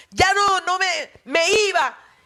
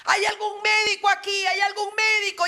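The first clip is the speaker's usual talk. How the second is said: raised, higher call across a crowded plane; father crying out for a doctor, urgent and raised; urgent call for help; 4 semitones higher than usual. Retold or imitated. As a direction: call out to the whole cabin for a doctor.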